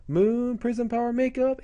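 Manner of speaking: put-on high, drawn-out magical-girl cry; heroine's transformation call. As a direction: call out the magic words grandly. Heroine calls out transformation phrase.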